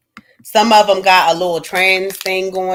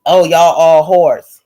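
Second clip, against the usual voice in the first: slow, louder sneer; dismissive; 5 semitones lower, 5 dB louder, slower than usual. Retold or imitated. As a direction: spit it out with contempt. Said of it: "The black man just said".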